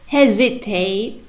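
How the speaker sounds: slow "hesitate" with stress off HE, rising at the end; wrong stress demo. Shown as a demonstration. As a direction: stretch "hesitate" wrongly, weight on later syllables. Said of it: "We cannot pronounce hesitate like".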